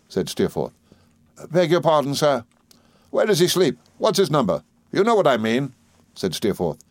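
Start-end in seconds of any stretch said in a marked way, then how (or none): 1.5-2.4 apologetic waiter. Acted. Waiter answering gentleman. 3.1-5.7 raised, pressing questions to a servant; impatient gentleman, pitch lifted; impatient demand. Acted.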